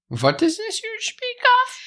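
high mock-innocent dad voice; embarrassing dad joke. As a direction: play dumb like a corny dad. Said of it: "dad joke kind of person".

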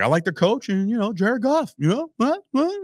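high, airy mock Wahlberg gushing. High mock Wahlberg gushing about the Lions. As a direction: squeak it out like a starstruck fan. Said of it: "he's like".

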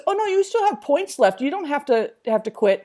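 lightly voiced judge, starting high. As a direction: imitate a judge talking someone out of quitting. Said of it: "And the judge says".

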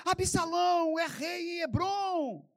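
high, drawn-out herald's cry; long, ringing acted shout; proclamation. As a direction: proclaim it like a rallying call. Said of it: "Quando ouvide o som da trombeta, direis".

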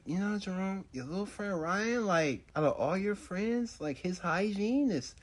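a hint of a fussing mother; mom voice. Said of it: "she was always like".

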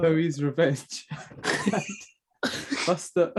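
holding back laughter; fighting a grin through the titles; trying not to smile. Real, not acted. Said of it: "I can't keep a straight face".

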